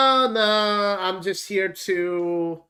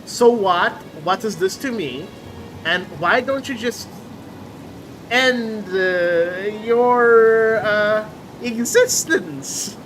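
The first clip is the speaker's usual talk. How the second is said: mock callous reply; 2 semitones higher than usual. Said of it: "what should I tell this guy?".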